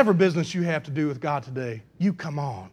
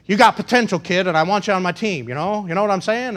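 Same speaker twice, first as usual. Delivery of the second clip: amateur New York talent agent; lightly put-on New York hustle; New York accent; 3 semitones higher, 4 dB louder, faster than usual. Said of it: "That's my New York accent's the best I can do".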